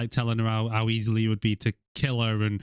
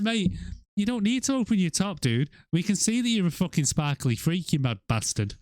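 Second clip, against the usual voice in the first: mock exasperated mate; 6 semitones higher than usual. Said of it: "it's like".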